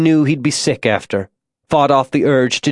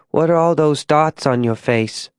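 lightly voiced small girl asking a question; innocent, puzzled child; curious little girl; 4 semitones higher than usual.

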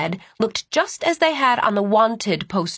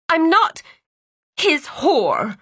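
indignant protest; 8 semitones higher, slower than usual. A narrator's reading. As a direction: fire back in shock. Sienna protesting in fear.

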